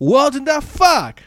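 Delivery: disbelief. Real, not acted. Incredulous outburst at bible story.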